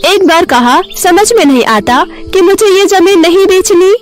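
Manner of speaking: put-on high-pitched, affronted old woman; indignant scolding. Savitri scolds two rude men back again, indignant. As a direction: tell them off with rising irritation.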